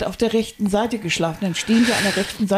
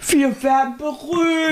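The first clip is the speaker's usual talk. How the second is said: mock triumphant; 6 semitones higher, slower than usual. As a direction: announce it like a grand triumph. Mock triumph, we'll be famous.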